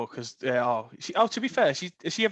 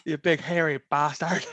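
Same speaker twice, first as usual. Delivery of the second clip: put-on Northern Irish accent; 3 semitones lower than usual. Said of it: "you can do that accent quite well".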